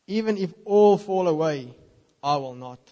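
emphatic vow. Acted. Peter declares before Jesus.

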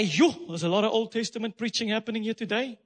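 a lightly voiced skeptical listener; teasing imitation of a grumbling churchgoer; mock listener's complaint. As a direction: slip into a casual doubter's voice. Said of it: "some of us might say".

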